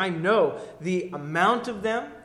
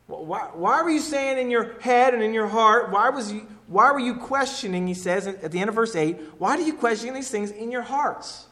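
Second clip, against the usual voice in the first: a touch of Jesus, raised voice, probing; Jesus confronting; 5 semitones higher than usual. Acted. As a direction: challenge the doubters head on. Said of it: "he says right out to them".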